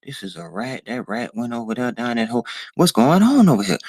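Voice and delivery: high, puzzled mock confusion at the cartoon; lightly voiced bewildered adult; baffled viewer. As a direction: play it dumbfounded, like a hypnotized viewer. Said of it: "We're like".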